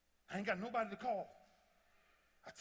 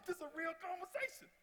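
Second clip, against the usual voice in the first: much higher, laughing through it; laughing aside; 13 semitones higher than usual. Real, not acted. Speaker laughing to the audience about the real talk. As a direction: share the joke with a laugh.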